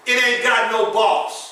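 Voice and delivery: slow, drawn-out Compton vernacular. Shown as a demonstration. Preacher tells the church the Compton way, slow and drawn out. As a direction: say it the way they say it in Compton. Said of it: "can I say it the way we say it in Compton?".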